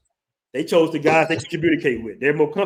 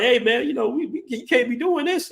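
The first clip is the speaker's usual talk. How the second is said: imitating a friend; 8 semitones higher than usual. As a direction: pull your buddy back in a panic. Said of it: "It's like".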